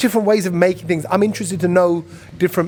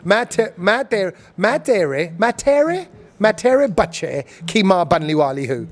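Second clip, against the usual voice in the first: Hindi with British vowels, halting "मैं तेरे" repeated before the full line; stumbling British Asian Hindi; British Desi accent; much faster than usual. Shown as a demonstration. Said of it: "over here, they go".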